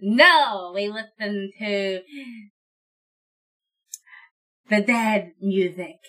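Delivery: slow, haughty undead aristocrat; snooty lich voice. Acted. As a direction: sniff at them, offended. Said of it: "to say in this voice".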